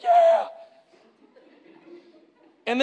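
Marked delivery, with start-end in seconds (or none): 0.0-0.5 excited yeah. Retold or imitated. Spontaneous partner cheers.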